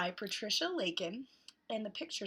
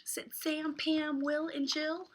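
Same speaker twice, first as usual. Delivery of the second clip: hot; much slower than usual. Acted. Reads picture book to children.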